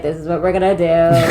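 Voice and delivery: mildly mocking monotone impression; monotone teacher. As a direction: lightly imitate a bored, droning teacher. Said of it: "he had a very monotone voice".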